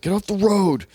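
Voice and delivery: half-hearted heckle at someone in the way; mock annoyed yell. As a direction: imitate yelling at cyclists from a car, without real volume. Acting out annoyance at cyclists.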